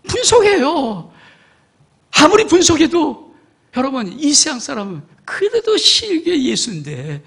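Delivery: high, loud, driving sermon climax; fiery preaching. Acted. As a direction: preach it hard to the congregation. Preacher at full force.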